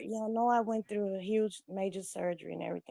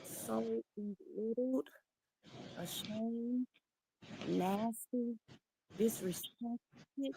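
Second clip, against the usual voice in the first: hurt and ashamed; 5 dB quieter, much slower than usual. Real, not acted. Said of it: "I feel".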